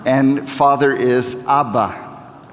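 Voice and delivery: Abba said slowly, stress on AB-ba; Abba teaching. Shown as a demonstration. Pastor teaching the congregation to say Abba, slow and clear. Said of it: "Can you say that?".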